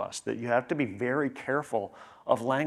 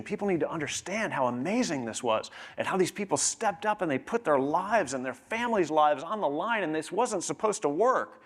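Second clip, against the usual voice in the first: rising excitement, pitch climbing high; passionate historian; 5 semitones higher than usual. Retold or imitated. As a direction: gush about the Revolution's stakes. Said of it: "a historian who was very passionate".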